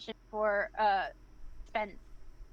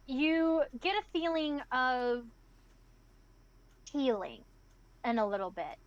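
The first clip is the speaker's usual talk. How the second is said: slow, measured scene-setting; game master narration; slower than usual. Acted. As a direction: draw out the description with pauses.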